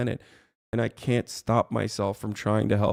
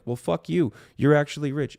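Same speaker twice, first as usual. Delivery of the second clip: higher-pitched mimicked heckler; mock indignant retort; 5 semitones higher than usual. Streamer mimicking jealous viewers, mock indignation. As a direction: imitate an indignant viewer firing back.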